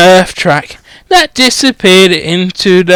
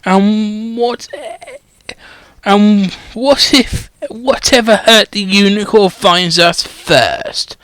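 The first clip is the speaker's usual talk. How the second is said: softer, nervous question; fearful schoolboy; 4 dB quieter than usual. Acted. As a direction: ask it nervously, scared of the forest. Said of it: "unable to keep the fear out".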